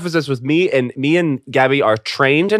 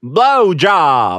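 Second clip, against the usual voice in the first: one word in a light Southern drawl; a touch of Southern twang on blowjob; Southern accent; 3 dB louder than usual. Pretend. Southern accent for the podcast game. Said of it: "which is Southern".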